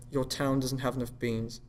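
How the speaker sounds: attempted Received Pronunciation; RP accent. Shown as a demonstration. Showing co-host accents on request, RP accent. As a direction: try an even RP English accent. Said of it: "let's start with R P".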